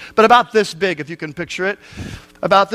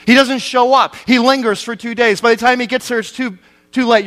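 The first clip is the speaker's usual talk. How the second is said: raised-pitch sermon appeal; impassioned preaching; 3 semitones higher than usual. Acted. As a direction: press the question on the congregation. Preacher presses question on congregation.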